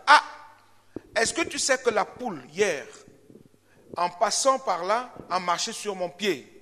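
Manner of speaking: a hint of a gossipy cat; gossiping cat. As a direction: tell the tale like a scandalised busybody. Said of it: "je caricature comme ça".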